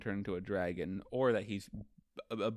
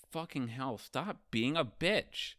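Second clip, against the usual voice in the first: exasperated scolding; 4 semitones higher than usual. Retold or imitated. Luffy scolding Momo for refusing, mock exasperation. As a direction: scold in a playful retold huff.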